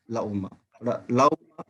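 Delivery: لعمہ with the لام lengthened and lips rounded; slow in-between demo. Shown as a demonstration. Teacher demonstrating to the students the in-between sound. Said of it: "تھوڑا لام کو لمبا تھوڑا سا کرنا ہے".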